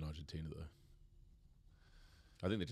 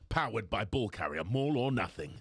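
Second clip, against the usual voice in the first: sponsor plug; 4 semitones higher, 7 dB louder than usual. Pretend. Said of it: "Say, say it".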